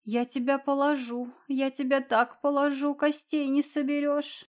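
threatening yell. A narrator's reading. Cat threatening the dragon.

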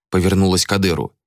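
ordinary delivery

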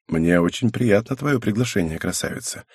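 soft, intimate, almost whispered; confidential tone. Acted. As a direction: lean in and speak in confidence. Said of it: "перешёл я на доверительный тон".

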